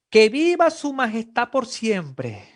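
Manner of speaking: loud, slow call of homage; Daniel's shout. Acted. Daniel calling up from the den to the king, loud and slow. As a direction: shout up from the pit in triumph. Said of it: "Me imagino ese grito de Daniel".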